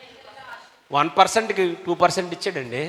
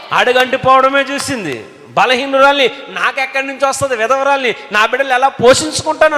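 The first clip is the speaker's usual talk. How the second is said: widow's despair; 7 semitones higher, 4 dB louder than usual. Retold or imitated.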